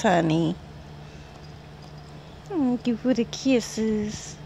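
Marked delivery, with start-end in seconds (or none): 2.4-4.4 slow, tender thank you; cooing thanks. Real, not acted. Owner thanking the dog for its kisses, slow and tender. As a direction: savour each word for the dog.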